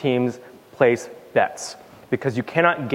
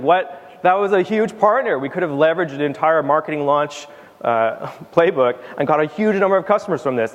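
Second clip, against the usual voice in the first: high, indignant "What?" as the marketing team; imitating a dismayed marketer who missed a launch; mock outrage; 4 semitones higher than usual. Marketing team's dismayed reaction.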